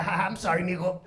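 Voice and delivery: imitated dad chuckling an apology; amused father, lightly acted; laughing apology. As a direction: start on a mock ha-ha, then apologise. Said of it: "He was laughing like".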